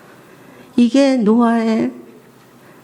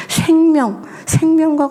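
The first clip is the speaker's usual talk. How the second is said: emphatic; 5 semitones higher, slower than usual. Real, not acted. Peak word of the point.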